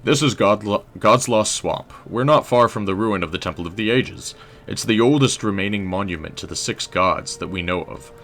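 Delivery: lightly voiced stoic scholar; a hint of British historian, explaining gravely. Historian telling a traveler about the swamp, lightly stoic. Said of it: "Maybe he's stoic".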